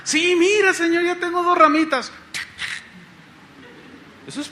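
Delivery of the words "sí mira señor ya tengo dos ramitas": put-on high, loud, childlike eagerness; eager disciple. Disciple shows the Lord two little branches, eager and high. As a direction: show it off to the Lord excitedly.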